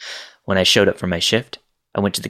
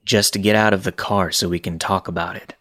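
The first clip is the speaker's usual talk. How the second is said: flat calm voice. Retold or imitated. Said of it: "He says flatly".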